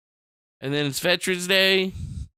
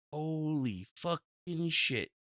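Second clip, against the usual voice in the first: awed hush; 10 dB quieter, much slower than usual. Real, not acted. Awed hushed reaction.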